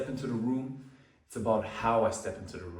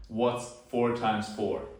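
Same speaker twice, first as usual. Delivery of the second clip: slow question; slower than usual. Shown as a demonstration. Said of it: "we're gonna go for the scenario right here".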